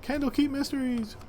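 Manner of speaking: rising TV announcer tease; big announcer voice. Acted. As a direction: hype the next episode like an announcer. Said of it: "do my big announcer voice here".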